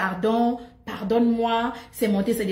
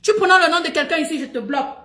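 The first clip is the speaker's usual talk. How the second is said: louder and fast, the warning repeated hard; louder fast repeat, stress on "Tu"; firm warning; 5 semitones higher, 3 dB louder, faster than usual. Shown as a demonstration. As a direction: bark the rule at the viewers. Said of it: "C'est aussi simple que ça".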